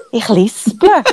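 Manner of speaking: Ich lisple said with a lisped s; lisping s in lisple. Real, not acted. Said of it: "bin ich eigentlich ein bisschen am Lispeln heute".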